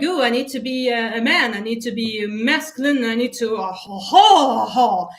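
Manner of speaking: hammed-up manly voice ending in a chest laugh; mock macho dude. Mocking a dude who thinks he must be masculine, hammed-up. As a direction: parody a guy pumping himself up. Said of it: "you think".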